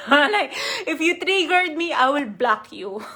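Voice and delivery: words broken up by real laughter; laughing while talking. Real, not acted. Telling viewers how she used to react, laughing. Laughing at her old self.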